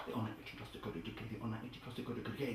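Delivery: fast, soft rattled-off repetition; quickly. Shown as a demonstration. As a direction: rattle it off fast under the breath. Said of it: "Say it quickly".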